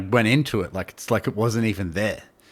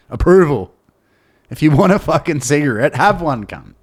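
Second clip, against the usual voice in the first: scolding inner voice; 6 semitones higher, 8 dB louder than usual. Retold or imitated. Inner voice scolds him, retold.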